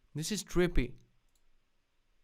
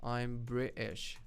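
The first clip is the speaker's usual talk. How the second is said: slow, soft mock-British accent; understated parody of a British accent; 5 dB quieter, much slower than usual. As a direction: put on a British accent, drawn out. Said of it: "British people be like".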